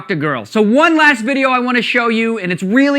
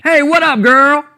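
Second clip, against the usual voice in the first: mock pickup line; 3 semitones higher than usual. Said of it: "I may have overreacted there".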